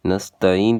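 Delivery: نستعین as "nasta-een"; smooth vowels in نستعین, ain left out; mistaken dropped ain. Shown as a demonstration. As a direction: say نستعین without the throaty ain. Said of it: "یہ بہت بڑی غلطیاں ہیں".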